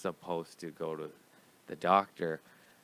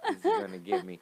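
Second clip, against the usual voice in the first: squeaky mock dread; faster than usual. Retold inner dread.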